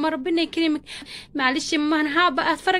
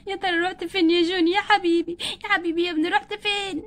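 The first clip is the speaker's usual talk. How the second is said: sobbing, then plaintive calling; tearful longing. Acted. Mother calling out for her missing baby, tearful. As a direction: call the lost child through tears. Mother weeping for lost son.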